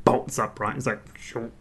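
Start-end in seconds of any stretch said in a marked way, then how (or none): 1.2-1.5 quiet flat robot voice. Retold or imitated. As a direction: drone it like a robot. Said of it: "I'm a robot".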